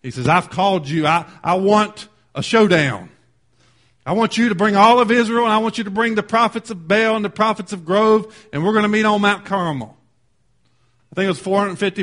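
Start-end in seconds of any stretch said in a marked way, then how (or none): 0.3-10.0 raised-voice preacher voicing a prophet's challenge; forceful challenge. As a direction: issue the summons forcefully. Elijah demands a showdown.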